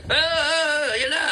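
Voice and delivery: high, mock panicky yelps. Mocking reckless protesters, high and panicky. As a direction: imitate a jittery hothead losing it. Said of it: "hindi yung ganyan na".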